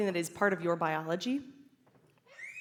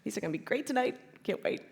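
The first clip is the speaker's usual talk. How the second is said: happy berry picker; 7 dB quieter, faster than usual. Pretend. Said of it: "and you're like".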